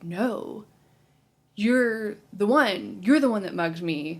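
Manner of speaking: mildly angry retold accusation, drawn out; drunk and angry. Drunk woman accusing the detective of mugging her, mildly angry. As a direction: act out a slow, emphatic accusation. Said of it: "she's drunk, and she's angry".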